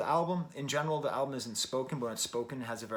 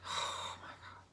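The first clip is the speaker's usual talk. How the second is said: sighed, whispered oh my God; exasperated sigh; 9 dB quieter, slower than usual. Real, not acted. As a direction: breathe it out, overwhelmed. Overwhelmed by the opening track.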